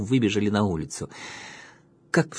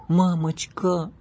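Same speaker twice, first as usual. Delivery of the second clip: put-on higher, slow, begging child; drawn-out pleading; 9 semitones higher, much slower than usual. A narrator's reading. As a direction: stretch the plea out slowly. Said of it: "умоляющим тоном произнесла девочка".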